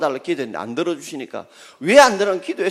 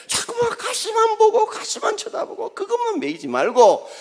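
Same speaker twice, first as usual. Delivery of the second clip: impassioned exhortation. Real, not acted. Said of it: "preaching exhortation".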